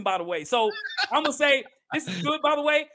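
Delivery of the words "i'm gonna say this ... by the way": chewing between words; eating crunchy fried chicken. Real, not acted. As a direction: mouth full of chicken. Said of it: "I'm gonna take a bite of this chicken".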